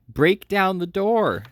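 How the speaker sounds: slow, high, loud scream. A narrator's reading. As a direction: drag out the scream to break the door. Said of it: "screamed the boy".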